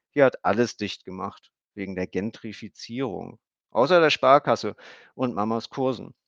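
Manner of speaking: put-on high chattering girl's voice; a kid explaining earnestly; little girl. A narrator's reading. Emmy explains her haircut to Stefan, high girl's voice. Emmy's long child speech.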